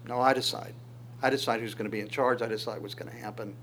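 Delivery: quick, dropping to near quiet; calm firm God voice. Acted. Preacher speaking as God to anxious believers, quiet and firm. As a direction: settle it quietly, no argument.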